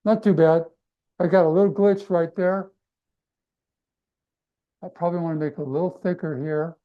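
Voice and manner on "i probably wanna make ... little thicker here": talking while holding breath; quick words on a held breath. Real, not acted. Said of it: "I'm holding my breath, guys".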